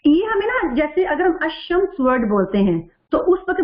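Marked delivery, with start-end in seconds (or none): 1.4-1.9 "الشمس" with the l silent, doubled sh; silent lam. Shown as a demonstration. Teacher showing sisters the sun-letter rule, "الشمس" with silent lam. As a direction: say "الشمس" as ash-shams, skipping the lam. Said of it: "الشمس کا جو ہے وہ لام نہیں پڑھا جا رہا".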